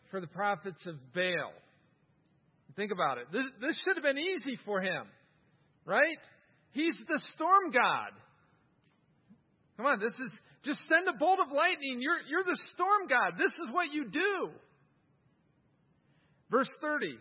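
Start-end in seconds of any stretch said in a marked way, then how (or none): 3.3-14.5 mocking laugh. Real, not acted. Mocking the storm god, laughing.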